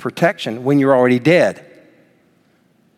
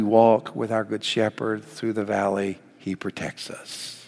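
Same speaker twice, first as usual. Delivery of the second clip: soft reassurance; 4 semitones lower, 8 dB quieter, slower than usual. Acted. Soft close after preaching.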